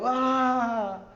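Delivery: short high imitated newborn scream; newborn's scream. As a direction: give a piercing little newborn scream. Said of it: "Un grito desgarrador". (grito agudo de recién nacido imitado)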